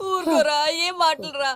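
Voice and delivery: slow, tearful scolding; crying. Acted. Weeping mother hushes her son's callous talk, crying. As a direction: sob out a weary reproach. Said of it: "ఎందుకు ఇంత ఏడుస్తున్నావు".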